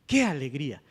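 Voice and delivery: soft exclamation led by "Qué"; stress on QUÉ. Shown as a demonstration. Teacher shows which word sounds stronger, stress on "Qué". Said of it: "la qué es la que suena más fuerte".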